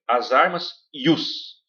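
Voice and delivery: as armas e os said slowly, with e os merged into one syllable; joined syllables. Shown as a demonstration. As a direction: slur e os together, slowly. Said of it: "Aqui, por exemplo". (juntando e os devagar)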